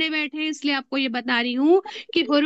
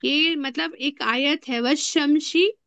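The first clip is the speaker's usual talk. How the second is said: Quran recitation; 2 semitones lower than usual. Shown as a demonstration. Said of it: "देखो".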